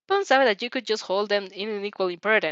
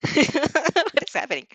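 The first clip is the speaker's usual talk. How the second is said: laughing aloud; 7 semitones higher, slower than usual. Real, not acted. Narrator laughing mid-story.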